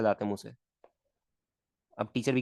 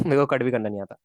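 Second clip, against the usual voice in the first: laughing repeat; 5 dB louder than usual. Real, not acted. Teacher laughs at himself to students, giggly repeat. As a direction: repeat it with a laugh, a little louder.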